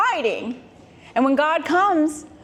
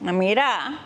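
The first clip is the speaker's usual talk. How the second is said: smooth-talking snake. Retold or imitated. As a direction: sweet-talk her like a sly street flirt. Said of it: "The snake is like".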